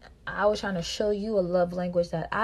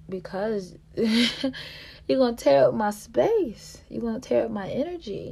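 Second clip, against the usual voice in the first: laughing reply; 4 semitones higher, 4 dB louder, slower than usual. Retold or imitated. Her answer, slowed with laugh.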